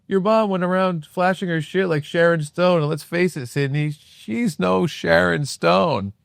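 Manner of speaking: lightly voiced movie-killer taunt, drawn out at the end; a hint of an actor's taunting delivery; Matthew Lillard. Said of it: "That's a good Lillard".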